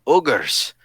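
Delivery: slow, drawn-out mock ogre voice; a lightly voiced grumpy ogre; ogre movie impression. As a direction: do your best cartoon ogre, dragging the words. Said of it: "you actually do that pretty well".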